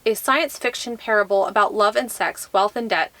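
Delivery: measured, even read-aloud delivery; book blurb reading. Acted. Vlogger reads a book blurb to viewers, measured read-aloud. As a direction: read the back-cover copy aloud.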